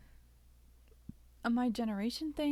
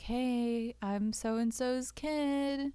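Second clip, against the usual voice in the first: higher, louder, slow phone greeting; polite phone voice; 4 semitones higher, 5 dB louder, much slower than usual. Retold or imitated. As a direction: put on a drawn-out polite caller voice. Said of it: "called where they work and be like".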